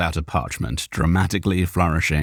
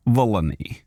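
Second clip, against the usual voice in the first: flat; 4 semitones higher than usual. Acted. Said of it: "Zarok replied flatly".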